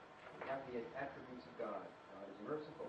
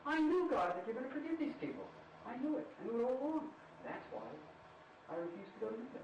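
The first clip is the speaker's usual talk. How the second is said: Jonah protesting to God; 9 semitones higher than usual. Acted. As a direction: play Jonah crying out I knew it at God. Jonah voiced complaining to God.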